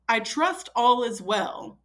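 slow, mock-solemn battlefield dispatch; war-letter formality. Husband texting like he's in battle, mock war-letter formality. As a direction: imitate a grave message from the front. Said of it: "he's on, uh, a Revolutionary War battle".

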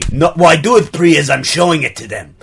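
put-on French-Austrian accent; affected accent. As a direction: artist in a muddled European accent. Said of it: "affect an accent".

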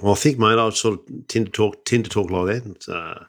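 lightly put-on Aussie accent; Australian accent. Asked for a go-to accent, mock Australian accent. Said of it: "What's your go-to Australian accent?".

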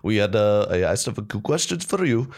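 imitated Indian-accented questioner; thick Indian accent. Reporter putting questions to Trump, imitated Indian accent. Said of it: "he had a thick Indian accent".

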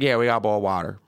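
lightly imitated Memphis waitress; thick Memphis accent. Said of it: "she had a very thick accent".

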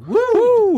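retold whoop from the record; a quick high woo; imitated whoop. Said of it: "you can hear the singer go".

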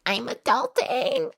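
high, slow smug mockery; mocking smug voice. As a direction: say it like a proud millennial. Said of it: "they have to be like".

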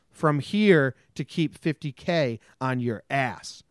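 slow, mock-ominous recital of the extortion poem; hammed-up sinister verse; reading the riddle letter. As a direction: read it like a creepy villain's rhyme, slowly. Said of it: "riddle emails like this".

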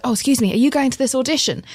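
high, quick polite question; polite enquiry. Retold or imitated. Lost auditioner asking a girl on the road, politely.

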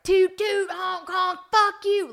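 very high honking yell; high-pitched mock New York road rage; aggressive New York. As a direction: blare like angry traffic. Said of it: "New York is aggressive".

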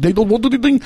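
put-on stern Russian accent telling him off. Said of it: "Like he says in his accent".

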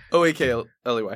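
spelling with hiccups. Real, not acted. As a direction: hiccup through the letters. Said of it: "she's got the hiccups".

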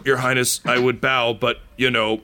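wry dying man. Acted. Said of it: "he looks to you and he's like".

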